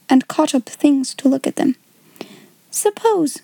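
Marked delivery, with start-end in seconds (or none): 2.7-3.4 lifted, dreamy single word; a child wondering aloud, lightly lifted; musing Sarah. A narrator's reading. Sarah muses to the girls about her doll, dreamy and lifted.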